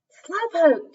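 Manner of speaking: high, loud call over the crowd. Acted. Siblings shouting over the crowd, high and loud. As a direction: shout her name over the cheering. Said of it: "Jack and Debbie called".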